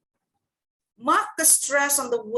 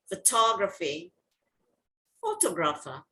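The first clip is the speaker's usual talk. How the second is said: photography then photographer, set apart as model words, lower; stress demonstration; 5 semitones lower than usual. Shown as a demonstration. Teacher shows the stress is different, stress demonstration. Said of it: "So the stress is different".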